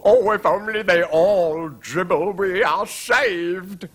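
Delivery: high, loud, slow relief; drawn-out, elated royal hope; hopeful exclamation. A narrator's reading. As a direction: cry it out as a king seeing rescue. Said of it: "exclaimed the king to himself".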